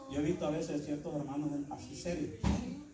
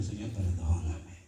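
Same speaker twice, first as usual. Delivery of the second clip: low, slow repentant prayer; humble plea; 11 semitones lower, 3 dB louder, slower than usual. Retold or imitated. Believer humbling himself before God, slow low plea. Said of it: "se humilla delante de Dios y le dice".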